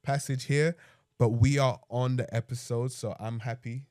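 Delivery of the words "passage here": blocked nose, nasal; talking through sinusitis. Real, not acted. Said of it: "if I sound nasally".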